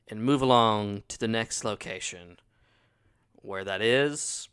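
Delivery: upbeat host welcome; podcast intro. Acted. Host opening the horror podcast episode, upbeat. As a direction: welcome listeners back to the show.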